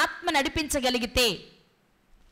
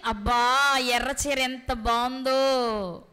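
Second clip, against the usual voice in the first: body's voice; 2 semitones lower, much slower than usual. Pretend. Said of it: "శరీరం అంటది".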